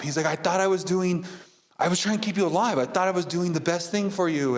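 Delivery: put-on defensive older brother. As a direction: explain you only wanted him safe.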